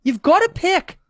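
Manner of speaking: slow, high, swooping lecture; high-pitched, laboured pronouncement; Jordan Peterson. Acted. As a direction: drag the words out, pitch climbing and falling. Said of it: "his Jordan Peterson impression".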